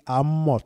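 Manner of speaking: Amot with a sounded TS ending; biblical pronunciation. Shown as a demonstration. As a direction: model Amot, letting the final S be heard. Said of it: "Sa prononciation biblique". (Amot avec le S final audible)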